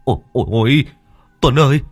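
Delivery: high, loud panicked shriek of ghost!; terrified scream. Acted. Tú spots a white shape in the torchlight, screaming in terror. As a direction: yell for your friend in sheer panic. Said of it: "thì nó tá hỏa hét lên".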